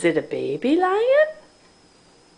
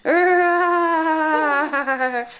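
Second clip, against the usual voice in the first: higher, hammed-up growl, stretched out; ferocious lion roar; 5 semitones higher than usual. Parent playing lion after it fell, hammed-up roar. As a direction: play a big scary lion for a giggling baby. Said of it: "he's a ferocious lion".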